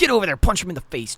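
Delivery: loud, high mock fight cheer; mock egging-on. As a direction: jokingly yell him into the fight. Jokingly eggs Chandler on to fight.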